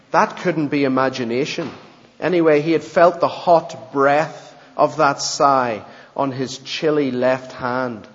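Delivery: steady storybook narration; story reading. Acted. Preacher reading a story to the congregation, steady narration. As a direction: read the tale aloud evenly.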